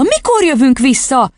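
put-on high, desperate little girl; distressed child's question; despairing question. A narrator's reading. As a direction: beg for an answer anxiously. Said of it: "kérdezte kétségbeesve Matilda".

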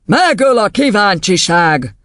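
dripping with mockery. Headmistress mocking the boy's rhyme, slow sneer. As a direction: stretch it out with spluttering scorn. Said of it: "gúnytól fröcsögő hangon".

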